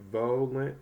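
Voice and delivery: "volent" tried as "VOH-lent", long o; long vowel trial. Shown as a demonstration. Teacher trying a long vowel sound, long o. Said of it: "try a long vowel sound".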